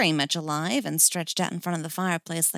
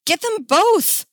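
high, loud rallying call; slow, high battle cry; 14 semitones higher, 8 dB louder, slower than usual. Acted. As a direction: call the mob to action. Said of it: "Steph called".

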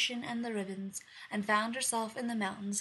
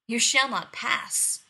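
slow stern refusal; 2 semitones higher, 9 dB louder, slower than usual. Acted. Huntress blocks the queen.

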